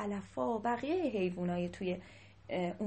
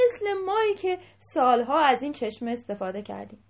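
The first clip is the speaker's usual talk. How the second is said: raised, higher voice addressing the king; speaking up loudly; 3 semitones higher, 7 dB louder than usual. A narrator's reading. Elephant objecting to the king about the rabbits' spring, loudly. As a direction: speak up boldly and loud to the ruler. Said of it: "با صدای بلند گفت".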